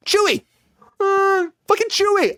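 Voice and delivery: exasperated cry. Real, not acted. Outraged she doesn't know Chewbacca.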